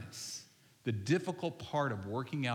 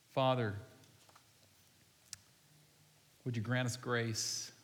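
hushed, lowered voice leading a congregation in prayer; slow prayer; 3 semitones lower than usual. Real, not acted. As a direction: pray unhurriedly, leaving room to reflect. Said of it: "I'm gonna pray really slow".

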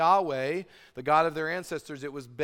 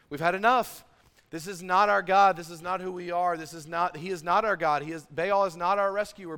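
indignant declaration; 3 semitones higher, 6 dB louder than usual. Acted. Elijah protesting against worship of Baal, loud and indignant. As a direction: firmly proclaim that enough is enough.

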